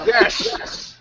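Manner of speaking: hammed-up pirate shout. Shown as a demonstration. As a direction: bellow it like a pirate. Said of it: "top ten pickup lines".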